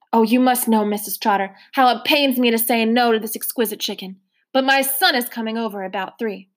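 lightly voiced courtly old man; a hint of a polite elderly gentleman. Mister Randolph politely refusing seconds, lightly voiced old man.

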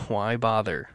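a hint of a defeated voice in the head; little inner voice of doubt. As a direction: softly voice your own self-doubt. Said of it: "that little voice in the back of my head".

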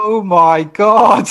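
real amazement at the listener's story; stunned disbelief. Real, not acted. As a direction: gasp it out in slow shock. Hearing he turned down lift.

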